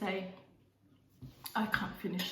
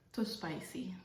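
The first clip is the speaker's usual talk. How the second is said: whispering; 6 dB quieter, slower than usual. Real, not acted. Mouth burning.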